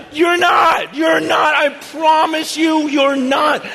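shouting that he's not ready; urgent shout. Retold or imitated. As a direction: plead with him at full voice. Pleading with the addict.

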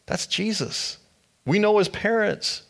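high, mocking disbelief from the crowd; scoffing crowd. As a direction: sneer it out like neighbours who know his parents. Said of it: "They say".

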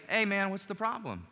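easy, open, caring question; friendly tone. Shown as a demonstration. Preacher showing the right way to open a conflict, friendly. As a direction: ask it like a friend who wants to help. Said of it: "big difference in those two tone of voices".

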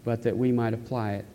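earnest, measured public prayer; closing prayer. Real, not acted. Pastor closing the sermon in prayer for the congregation, earnest and measured. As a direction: pray sincerely, with pauses between petitions.

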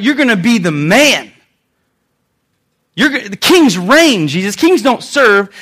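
insistent, emphatic protest; mock-outraged objection; indignant reprimand. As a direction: push back hard, punching the key words. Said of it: "began to reprimand him".

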